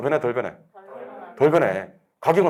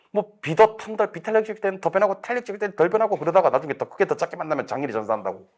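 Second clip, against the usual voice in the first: mock rote recitation; 5 semitones higher than usual. Mimics rote memorizing of mnemonics.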